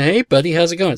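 light upbeat hello to a bird; friendly greeting to animal. Retold or imitated. Man on porch greets a crow, light and friendly. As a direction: greet a wild crow casually. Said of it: "he says something to the crow".

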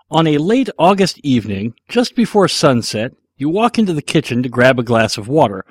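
lightly hammed-up storyteller; big scene-setting read; dramatic story narration. Reads out a long scenario question.

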